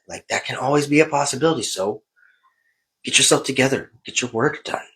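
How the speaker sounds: stern self-lecture, mostly in own voice; a light touch of a tough-love parent; self pep talk. Retold or imitated. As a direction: scold yourself like a coach. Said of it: "and I was just like".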